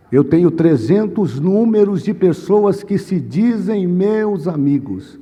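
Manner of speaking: anguished plea with long, high stressed words; retold anguish. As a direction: cry out to God in distress, word by word. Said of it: "Eu fiquei muito angustiado".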